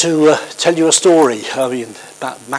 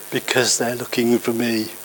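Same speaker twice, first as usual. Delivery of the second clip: put-on giggly little girl; 3 semitones lower, 7 dB quieter than usual. A narrator's reading. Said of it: "the little girl had giggled".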